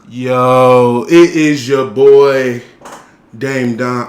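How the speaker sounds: loud slow announcer intro; hype intro. Real, not acted. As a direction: announce yourself big.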